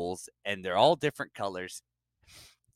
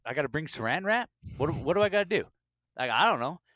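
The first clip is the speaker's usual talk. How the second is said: higher, mock-clueless questioning; comic bafflement; 6 semitones higher, 3 dB louder, faster than usual. Newcomer told about amrap, mildly hammed-up confusion. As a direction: ask it as a lost beginner, pitched up.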